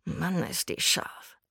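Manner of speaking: slow, hushed murmur under the breath. A narrator's reading. Boy ogles the passing trainee teacher, murmuring. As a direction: mutter it low in volume, half to yourself. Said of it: "murmelte er".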